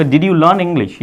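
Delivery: each word slow and distinct; slow model sentence. Shown as a demonstration. Teacher gives students the English question, slowly. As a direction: dictate the question clearly. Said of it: "तो मैं बोलूँगा".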